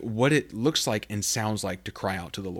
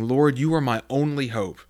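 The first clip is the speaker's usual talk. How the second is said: desperate prayer. Acted. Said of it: "someone that's saying".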